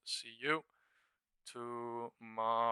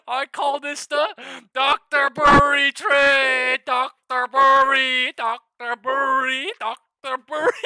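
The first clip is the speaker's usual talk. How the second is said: high, loud, slow triumphant chant; hyped shouting; 13 semitones higher, 16 dB louder, slower than usual. Real, not acted. Trader hyping his Doctor Burry trade to viewers, high loud chant. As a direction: shout it like a victory chant to the chat.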